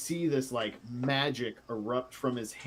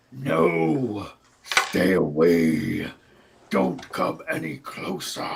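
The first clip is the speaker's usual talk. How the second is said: terrified cry; 7 dB louder, slower than usual. Acted. Creature cries out in the cave.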